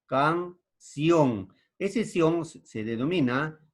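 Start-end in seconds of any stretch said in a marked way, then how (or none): 0.1-1.5 "canción" as can, pause, ción with joined vowels; two beats in "canción", io kept together; syllable by syllable. Shown as a demonstration. Teacher showing a diphthong, "canción" split in two syllables. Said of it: "se pronuncian juntas".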